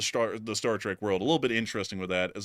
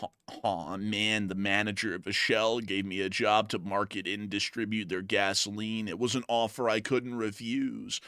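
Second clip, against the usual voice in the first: sad-sack fly; 2 semitones lower, 5 dB quieter than usual. Pretend. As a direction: moan it out like a loser. Fly voice held.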